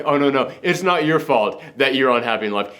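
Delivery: low, coaxing persuasive voice; soothing manipulator. Retold or imitated. Voicing society's manipulative message.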